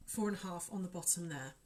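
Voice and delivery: fighting off hiccups; suppressing hiccups. Real, not acted. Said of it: "sorry, I've got hiccups".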